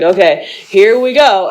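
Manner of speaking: slow, heavy-footed "here we go"; imitating tense bracing. Girlfriend going in to crate the cat, mock tense bracing. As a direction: mimic someone tensely steeling herself. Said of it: "she brings that negative energy".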